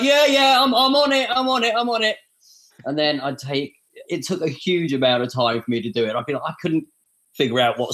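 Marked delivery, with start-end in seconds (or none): 0.0-2.2 mock-eager reassurance, much higher and louder at the start; hurried, over-keen promise that fades down; breezy fobbing off. Max imitates himself fobbing off the organisers with eager, high promises. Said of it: "And I'd be like".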